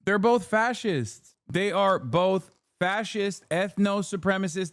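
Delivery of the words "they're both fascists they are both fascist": slow, each word placed deliberately; slow and emphatic. Real, not acted. Streamer insisting to chat on the comparison, slow and emphatic. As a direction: lay it down word by word. Hammering home the point.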